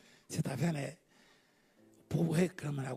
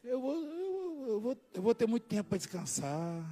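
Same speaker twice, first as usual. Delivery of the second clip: softer, drowsy murmur; soft sleepy answer; 8 dB quieter than usual. Retold or imitated. Preacher imitating God calling him to rest, softly. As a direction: let it fade like falling asleep. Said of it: "Deus vai me chamar pra dormir".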